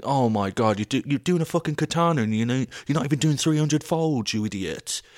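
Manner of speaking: furious mock yell at the telly; shouting at the TV. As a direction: rant at a contestant on TV. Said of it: "I'm shouting at the T V being like".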